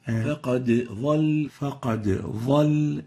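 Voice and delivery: فقد ظل with the dad said as a za. Shown as a demonstration. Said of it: "replacing it with the va".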